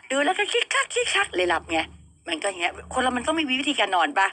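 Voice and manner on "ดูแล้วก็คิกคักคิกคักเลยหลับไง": giggling. Real, not acted. Giggling over cute anime.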